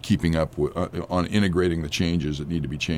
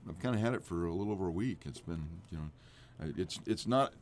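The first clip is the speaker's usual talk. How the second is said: deep husky voice after a cold; husky and sultry from being sick; 3 semitones higher, 5 dB quieter than usual. Real, not acted. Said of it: "my deeper, more sultry voice".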